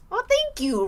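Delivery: excited thanks. Real, not acted. Thanking chat donor excitedly.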